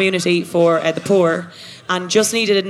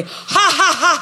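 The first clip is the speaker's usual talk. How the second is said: maniacal laugh; 8 semitones higher, faster than usual. Acted. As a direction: cackle like a mad scientist. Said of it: "laughing maniacally".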